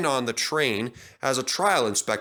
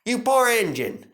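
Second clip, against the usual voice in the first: sympathetic; 10 semitones higher, 4 dB louder than usual. A narrator's reading. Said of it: "sympathized James".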